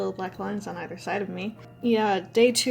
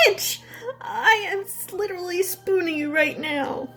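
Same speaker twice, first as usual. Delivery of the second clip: laughing exasperation; 9 semitones higher than usual. Retold or imitated. Exasperated retold reply, laughing.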